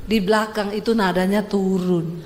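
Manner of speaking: "Di belakang itu nadanya turun" settling downward at the end; falling Javanese ending. Shown as a demonstration. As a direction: let the tone sink gently at "turun". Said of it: "Gimana ngomongnya wong Jawa?".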